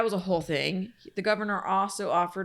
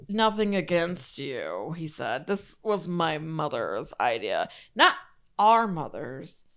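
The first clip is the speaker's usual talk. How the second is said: put-on mean girl voice; 2 semitones lower, slower than usual. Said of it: "you kinda read it like a mean girl".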